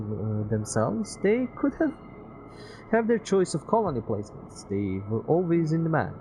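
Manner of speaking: put-on high, loud wistful young man; Peter's voice. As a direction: voice Peter, a little sad.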